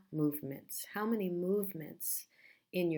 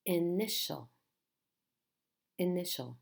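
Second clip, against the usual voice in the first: "Initial" with the stress on ni; stress second syllable. Shown as a demonstration. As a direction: punch the middle syllable of "Initial". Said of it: "It's the second syllable".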